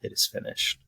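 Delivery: quiet, calm retold quote; low-key, peaceful delivery. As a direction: say it softly and calmly, understated. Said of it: "he just calmly says".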